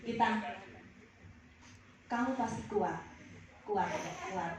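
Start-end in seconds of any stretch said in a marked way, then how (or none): 2.0-4.5 heartfelt encouragement. Acted. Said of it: "Soalnya menjiwai tadi".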